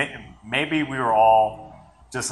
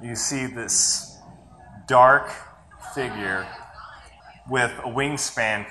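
whispering; slower than usual. Real, not acted. Eerie telling of the creature.

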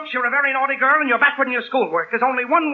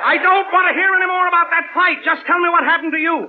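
exasperated; 6 semitones higher than usual. Acted. Father losing patience with his daughter over the fight. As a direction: cut off the child's story in exasperation.

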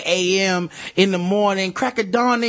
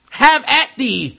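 put-on slow, louder, higher old-fashioned duelling challenge; mock swordsman; 5 semitones higher, 5 dB louder, slower than usual. Host voices the knife man as a duelling knight, hammed-up.

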